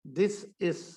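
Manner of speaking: 'this is' run together softly; spoken-style pronunciation. Shown as a demonstration. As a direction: demonstrate 'this is' as a teacher would. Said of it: "ऐसे". (बोलचाल वाला उच्चारण)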